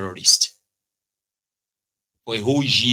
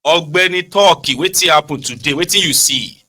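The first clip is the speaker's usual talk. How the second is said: eager mock reporter call; 4 semitones higher, 8 dB louder than usual. Mock reporter calling a passerby.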